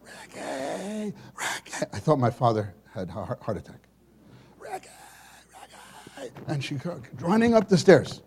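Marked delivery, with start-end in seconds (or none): 0.0-6.3 far-off imitated yell; calling from downstairs. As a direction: call his name from below. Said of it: "yelling from downstairs".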